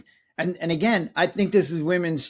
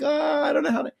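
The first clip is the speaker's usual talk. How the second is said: overwhelmed panic; 10 semitones higher, faster than usual. Retold or imitated. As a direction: blurt it out in a helpless panic. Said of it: "And I'm like".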